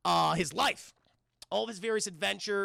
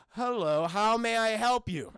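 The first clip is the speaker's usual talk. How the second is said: slow, measured, louder greeting; lightly voiced movie villain; 5 dB louder, slower than usual. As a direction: answer the door with slow formality. Villain answering door in retold movie.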